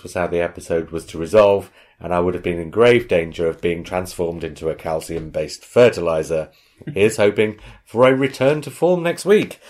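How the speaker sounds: lightly put-on Missouri accent. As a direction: read out the email in a hint of a Missouri accent. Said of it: "about the accent I'm about to do".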